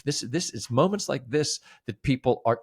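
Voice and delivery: ordinary talk, nothing marked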